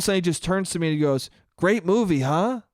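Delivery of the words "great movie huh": imitating an old man's eager excitement; mock overjoyed movie fan; lightly voiced excited old man; most excited voice. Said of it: "with the most excited voice of all time".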